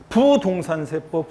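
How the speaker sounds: slow "부동산 세법" with a long, loud 부; 첫음절 강조. Shown as a demonstration. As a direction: punch and stretch 부 in "부동산 세법". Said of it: "이거 못하면 음치라고 했잖아요". ("부동산 세법"에서 "부"를 길고 세게)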